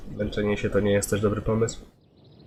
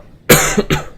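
short harsh cough; a quick sick cough; chesty cough; 8 dB louder than usual. Real, not acted.

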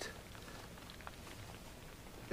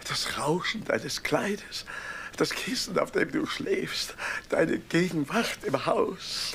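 slow tender longing; slower than usual. Acted. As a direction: linger over each thing you would miss. Husband lists what he'd miss.

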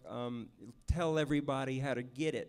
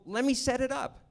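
quoting Charlie; 4 semitones higher, 3 dB louder than usual. Retold or imitated. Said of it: "He says".

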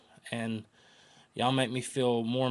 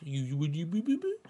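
excited squeal; 5 semitones higher than usual. Retold or imitated. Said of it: "I was like".

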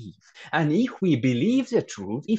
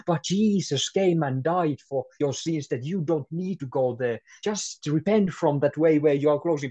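bold witness. Retold or imitated. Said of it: "let's be bold and tell them".

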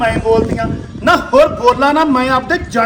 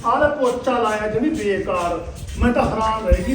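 grumbling under breath; 3 semitones lower, 7 dB quieter than usual. Acted. Mother-in-law grumbling alone.

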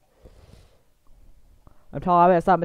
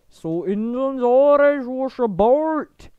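slow, drawn-out sung character voice; hammed-up singsong; Beresford; slower than usual. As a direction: sing it slowly with broad put-on vowels. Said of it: "why are you Beresford now?".

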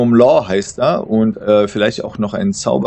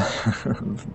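soft breathy acted chuckle; hushed little laugh; 2 semitones higher, 10 dB quieter than usual. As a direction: chuckle quietly between words. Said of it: "vor Lachen".

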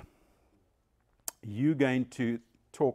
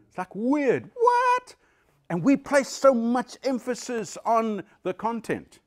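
high, loud astonished What; surprised; 11 semitones higher, 7 dB louder than usual. Acted. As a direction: play up the shock at the number. Mock amazement at seven percent.

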